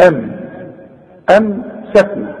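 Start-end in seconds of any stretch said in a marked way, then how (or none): none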